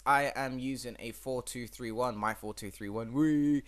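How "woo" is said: a quick cheer, higher and louder; excited woo. Real, not acted. Gamer cheering his four two three one, excited. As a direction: celebrate the tactic. Pleased with his own formation.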